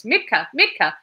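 loud, high furious chase yell; man yelling after Mitka on the stairs; yelling at top of voice. A narrator's reading. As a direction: scream the name down the stairwell. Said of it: "yelling at the top of his voice".

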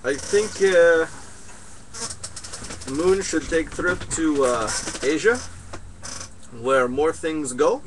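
lightly voiced wise-man character, halting; a hint of a mystic sage dispensing advice; broken-English guru. Holds a broken-English guru figure.

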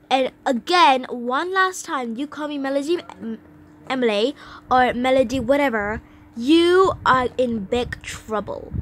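indignant warning. Pretend. Girl warning her buddy about the nickname, indignant. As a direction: warn them crossly, quick in the middle.

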